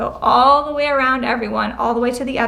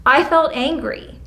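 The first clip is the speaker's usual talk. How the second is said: louder I-statement; 3 semitones higher than usual. Shown as a demonstration. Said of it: "even if you say it loud like that".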